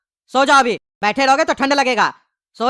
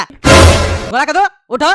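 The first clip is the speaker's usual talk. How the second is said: louder, slower shouted question; slow loud call; 5 dB louder, much slower than usual. Acted. Father shouts to wake sleeping son, slow loud call. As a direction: shout it slowly into his ear.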